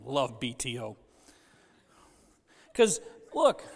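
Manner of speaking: normal talking voice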